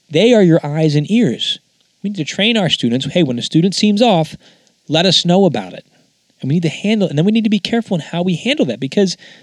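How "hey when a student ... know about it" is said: ordinary delivery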